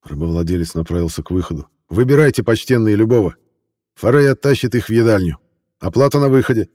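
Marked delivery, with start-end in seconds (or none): 1.9-6.7 merchant voice. Acted. Trader invites buyers to choose.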